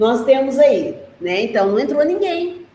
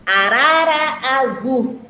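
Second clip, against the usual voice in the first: reading the title; slower than usual. Shown as a demonstration. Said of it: "Depois fala assim, ó".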